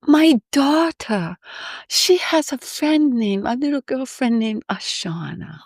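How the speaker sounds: slow, high, drawn-out surprise; delighted recognition. Retold or imitated. The pianist recognizing her name, slow and high with delight. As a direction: linger on her name as if it rings a bell. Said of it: "the first words out of his mouth".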